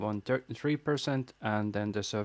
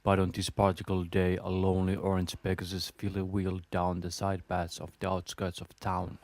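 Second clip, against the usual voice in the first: story narration; 3 semitones lower than usual. Acted. Reads fan fiction aloud.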